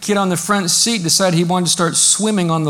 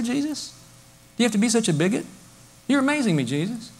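mock sneering churchgoer; 3 semitones higher, faster than usual. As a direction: tease him like a smug modern critic. Mocking modern churchgoers.

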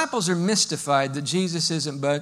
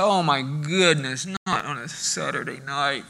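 groan; 5 semitones lower than usual. Retold or imitated. Groaning at the alarm.

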